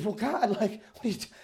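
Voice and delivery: mock-indignant, increasingly agitated complaint; upset protest. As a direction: imitate an upset man challenging God. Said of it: "kinda gets even more upset and says".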